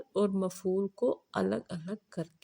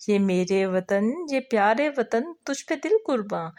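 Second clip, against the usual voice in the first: the same lines again, a little quicker and fuller; repeated recitation. Shown as a demonstration. Teacher repeating the verse for the second member, sing-song.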